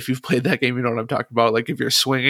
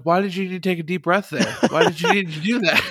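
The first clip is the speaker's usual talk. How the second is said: laughing exasperation; 5 semitones higher than usual. Retold or imitated. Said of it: "I'm like".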